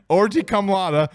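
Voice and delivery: cracking up at a silly name; real laughing. Real, not acted. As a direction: struggle to read it out while laughing.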